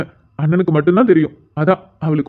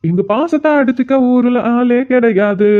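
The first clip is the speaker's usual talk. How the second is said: slow boastful praise; 3 semitones higher, slower than usual. Acted. Grandson praises his brother.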